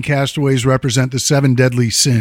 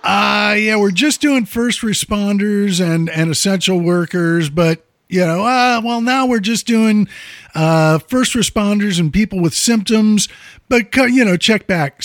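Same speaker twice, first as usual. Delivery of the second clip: higher, lightly mocking city official; bureaucrat runaround voice; 6 semitones higher than usual. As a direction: play the dodgy official brushing people off. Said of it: "the city has been going back and forth with".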